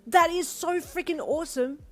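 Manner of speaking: high, loud gush; excited. A narrator's reading. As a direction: rave about it. Girlfriend thrilled.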